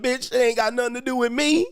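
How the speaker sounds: high, indignant imitated retort; acted brush-off; mock dismissive. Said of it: "If a guy said that".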